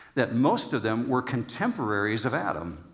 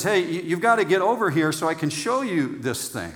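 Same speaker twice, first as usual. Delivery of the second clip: put-on Australian accent; 4 semitones higher than usual. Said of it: "I did a really good Australian accent".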